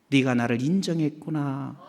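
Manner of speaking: soft, low approval; tender divine voice. Retold or imitated. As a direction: acknowledge them gently.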